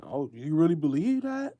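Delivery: skeptical mock voice; lightly voiced skeptic; mocking Anton's doubt. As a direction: sneer it like a doubter. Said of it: "Like Anton is saying".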